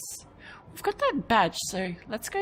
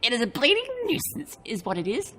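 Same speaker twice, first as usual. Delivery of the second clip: put-on a rough try at a grumbling Yorkshire accent, higher and louder; attempted Yorkshire accent; 5 semitones higher, 4 dB louder than usual. The artificer grumbling at the traveller, in a rough Yorkshire accent. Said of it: "grumbled in a thick Yorkshire accent".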